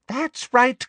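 high-pitched, eager approval; pressing villain, voice lifted high; insistent coaxing. A narrator's reading. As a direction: urge her on, pitched right up. Umbridge repeats it more insistently.

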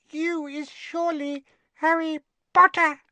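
high, loud squeak of awe; awestruck house elf. A narrator's reading. Winky recognises Harry Potter, awestruck squeak. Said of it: "looking awestruck".

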